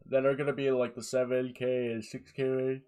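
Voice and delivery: speaking mid-yawn. Real, not acted. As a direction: let a yawn pull the words. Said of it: "you just got to deal with me yawning".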